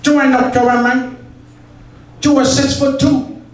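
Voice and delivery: put-on shouting in a terrible Pacino Cuban accent; bad Scarface Al Pacino. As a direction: bellow it like a hammed-up Scarface. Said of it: "I can't do a Cuban accent... Scarface Al Pacino".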